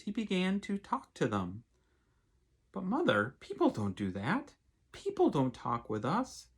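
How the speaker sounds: gentle storybook reading aloud; lightly voiced picture-book narration; reading to children. A narrator's reading. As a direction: read it like a bedtime story for kids.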